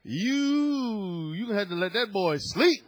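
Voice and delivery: husband's firm demand. Retold or imitated. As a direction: insist like a fed-up husband.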